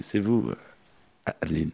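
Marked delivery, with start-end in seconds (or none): 1.3-1.7 whispering. Acted. Host greets guest in whisper.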